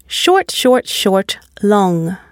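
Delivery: three brief "short"s, then stressed "long"; quick "Short, short, short", drawn-out final "long"; stress pattern demo. Shown as a demonstration. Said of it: "only one long and stressed syllable".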